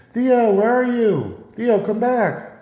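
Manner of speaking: high, drawn-out mock holler; imitated yelling. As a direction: call out as if to someone far away, stretching the words. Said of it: "they actually yelled towards me".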